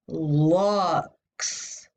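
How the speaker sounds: "Lux" with a stretched "uh" vowel; short U sound. Shown as a demonstration. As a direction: linger on the "uh" in "Lux". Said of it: "That's the short U sound".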